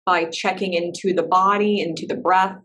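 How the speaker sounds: measured meditation-teacher voice with long pauses; guided meditation. Real, not acted. Teacher settling a class into breath and body, guided meditation. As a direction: guide them gently inward, leaving space between phrases.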